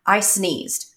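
put-on slow, earnest child voice; a solemn four-year-old confessing slowly; serious little boy. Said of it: "he looked at me so serious".

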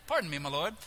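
hint of a polite British comedy accent; British comedy gentleman. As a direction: play a very proper British gentleman, lightly. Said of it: "British comedies going through my head".

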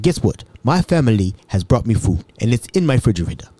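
measured, lightly imitated African accent; touch of a formal African voice. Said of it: "Mbutu was an African".

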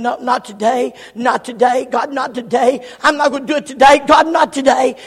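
rising, emphatic putting-off; insistent refusal. Acted. Sinner repeatedly shoving God off.

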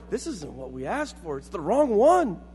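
starts hushed, rises into mock bafflement; puzzled protest. People scratching heads at Jesus, puzzled protest. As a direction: complain in baffled disbelief, climbing at the end. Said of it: "scratching their heads going".

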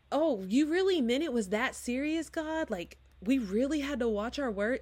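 rising, disbelieving question to God; incredulous plea. Retold or imitated. Herself pleading with God on Judgment Day, incredulous. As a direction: act shocked it really counted.

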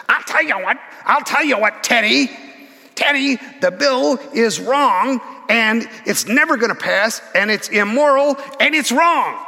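put-on high, squeaky, heated old politician; squeaky Humphrey voice. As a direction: squeak out the argument, jabbing hard. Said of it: "It's a squeaky little voice".

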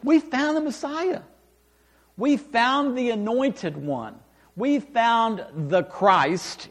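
proud announcement. Retold or imitated. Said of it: "Andrew makes an announcement".

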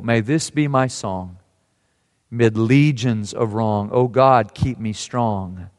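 earnest reading of a hymn-like poem, trailing to a near-murmur at the end; poem recitation. Acted. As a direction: recite it like a vow you refuse to break. Reads an anonymous poem aloud.

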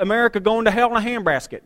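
put-on a little hick accent; lightly put-on country hick twang. Preacher mimicking recliner complainers about America, in a slight hick accent. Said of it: "with a little hick accent".

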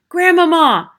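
high, loud shout through a door. A narrator's reading. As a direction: call out as loud as possible. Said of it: "I shouted as loudly as I possibly could".

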